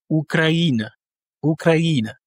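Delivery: Ukraine in Russian: u-kra-I-na, stress on the I; Russian pronunciation. Shown as a demonstration. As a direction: Ukraine said the Russian way in four syllables. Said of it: "l'accentuation est sur le I".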